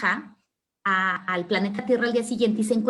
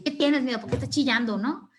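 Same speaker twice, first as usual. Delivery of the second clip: impatient acted questioning, raised pitch; exasperated; 4 semitones higher than usual. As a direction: demand an answer with mock impatience. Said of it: "desesperado como es".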